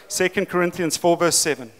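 clearer repeat. Real, not acted. Preacher repeating the verse for listeners who missed it, clearly. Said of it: "Am I speaking fast in my South African accent?".

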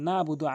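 নাবুদু with no ain after না; quick plain নাবুদু; common mispronunciation. Shown as a demonstration. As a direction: say নাবুদু smoothly, skipping the throat sound. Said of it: "আইনের উচ্চারণ মোটেই করে না".

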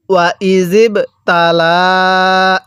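slow ওয়া ইজিব তালা with the lam vowel stretched long. Shown as a demonstration. Teacher showing students the three-alif stretch, slow recitation. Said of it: "লামের মধ্যে আমরা তিন আলিফ টান দিব".

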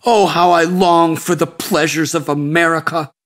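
a yearning "Oh" with a lift; longing sigh. Acted. Sadhu dreaming aloud of American pleasures, sighing with longing. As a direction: melt into the daydream of America. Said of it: "He closed his eyes and sighed".

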